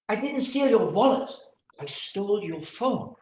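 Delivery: "wallet" stressed, then "phone" rising. Shown as a demonstration. Lecturer's last demo of a shifted stress. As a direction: lean on "wallet". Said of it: "the meaning is completely different".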